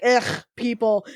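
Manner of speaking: drawn-out disgusted groan, imitating a snob; mock celebrity disdain. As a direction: play the celebrity who can't stand fans. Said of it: "that kind of person that's, like, you know, quote unquote, a celebufer".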